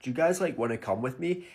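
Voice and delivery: lightly voiced laid-back American bro; casual bar chat-up, mimicking an American; American guy flirting.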